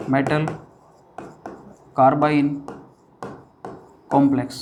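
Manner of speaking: each word set apart by long pauses; slow dictation. Shown as a demonstration. Teacher dictating to students, slow and spaced. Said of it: "और एक होता है अपना metal".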